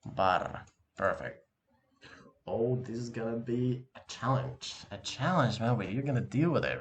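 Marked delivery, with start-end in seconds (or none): 0.0-0.6 Bar with a rolled, growling r; growled r. Shown as a demonstration. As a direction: growl the r in Bar like a small dog. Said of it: "Tiny little doggy".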